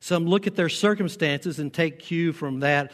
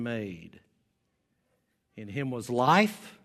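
scripture reading; 2 semitones lower than usual. Acted. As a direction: read the verse out slowly and solemnly, with pauses. Reads Bible passage aloud.

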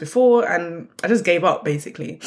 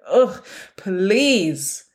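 disgusted; 2 semitones higher than usual. Retold or imitated. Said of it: "with pure disgust on my face".

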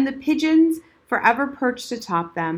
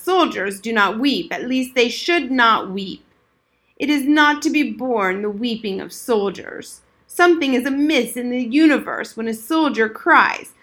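put-on old veteran remembering; 2 semitones higher, 4 dB louder than usual. Old soldier lectures.

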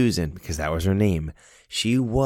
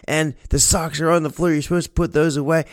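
scolding mother; 9 semitones higher, faster than usual. Retold or imitated. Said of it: "she calls her daughter".

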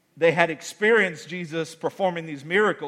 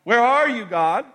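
slow plea; 7 semitones higher, 5 dB louder, much slower than usual. Retold or imitated. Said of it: "Moments where I'm like".

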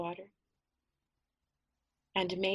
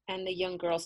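ordinary delivery, nothing marked

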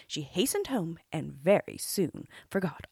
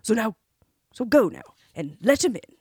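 louder, firm fatherly order; stern king; 3 semitones higher, 9 dB louder than usual. A narrator's reading. King ordering his daughter to open the door, stern and louder. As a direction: command her as the king. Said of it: "said the king sternly".

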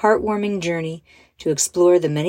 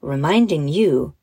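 gentle meditation guide with measured pauses; guided visualization. Acted. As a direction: lead children calmly through an imagined scene.

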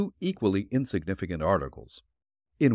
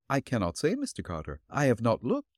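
put-on elderly landlady voice; 4 dB quieter than usual. Landlady answering the detective at her door, politely.

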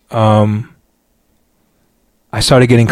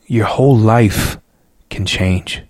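gentle aunt; slower than usual. Retold or imitated. Aunt gently urging her nephew to go forward, tender and slow.

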